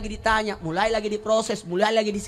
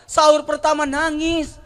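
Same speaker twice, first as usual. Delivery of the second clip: loud, high preaching; impassioned sermon; 6 semitones higher, 7 dB louder than usual. Acted. Preacher stirring grief about dead parents, loud. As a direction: pour feeling into it, louder.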